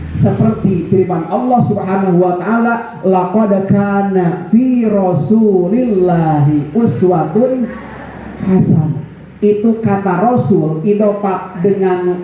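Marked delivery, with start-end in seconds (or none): 3.1-9.0 slow, measured Arabic recitation; Quran recitation. Shown as a demonstration. Preacher quoting scripture to the congregation, slow recitation. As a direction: recite the verse slowly, drawing out the syllables.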